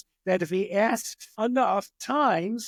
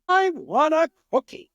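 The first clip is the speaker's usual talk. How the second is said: put-on a higher, louder whiny kid demand; mock child demanding; 9 semitones higher, 5 dB louder than usual. Timmy asks mom for a cookie again, raised whiny demand. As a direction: insist on the cookie like a pushy kid. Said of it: "No, third time".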